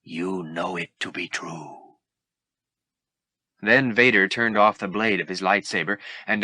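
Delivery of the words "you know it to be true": lightly voiced evil Yoda. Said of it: "sounding like an evil version of Yoda".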